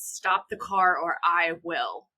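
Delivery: lightly acted, weighty command; imposing threat. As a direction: throw your full size behind it, slowly. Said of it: "he says it with all six-foot-four of him".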